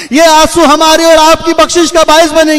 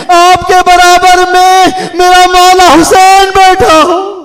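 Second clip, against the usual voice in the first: rising mournful preacher's chant, drawn out; preacher moving mourners to weep; lamenting majlis recitation. Acted. Preacher reciting masaib to the mourners, in a rising mournful chant.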